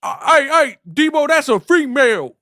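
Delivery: very high, loud rapper-imitation whine; imitating a rapper's high loud pleading; impression of a rapper. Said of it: "my boy Q was like".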